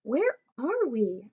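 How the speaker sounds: put-on a lost kid asking slowly where they are; puzzled. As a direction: sound lost and amazed. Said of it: "asks George".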